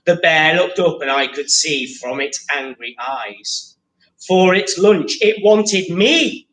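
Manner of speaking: lively picture-book read-aloud; story reading to children. Acted. Teacher reads the picture book to pupils, lively read-aloud. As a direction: read the rhyming story to the class.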